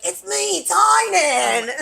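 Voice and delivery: high, shouted self-introduction; high-pitched mock holler; Tynan. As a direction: call it out big, imitating a rowdy friend. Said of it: "that's when Tynan was like".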